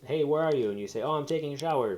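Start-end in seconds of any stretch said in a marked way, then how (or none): 0.1-0.7 mock mom yell. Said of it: "your mom comes home and yells". 1.0-2.0 mock call from bathroom. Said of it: "from the bathroom".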